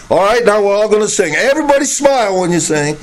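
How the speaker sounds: fast, bright mock cheer of a worship leader; mock song leader. Preacher mocks a leader telling the church to smile, fast and chirpy. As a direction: rattle it off like a pushy song leader. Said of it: "And so they say".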